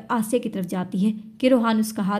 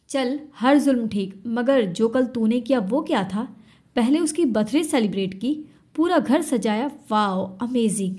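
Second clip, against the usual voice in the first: sarcastic taunt. Acted. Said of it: "उस पर तंज करता है".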